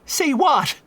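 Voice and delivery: the priest jolts in agitation; agitated exclamation. A narrator's reading. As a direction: priest agitated, snapping a question. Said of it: "exclaimed the priest, agitated".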